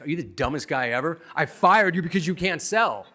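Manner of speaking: imitating an angry boss; mock angry boss; boss snapping. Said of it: "He's like".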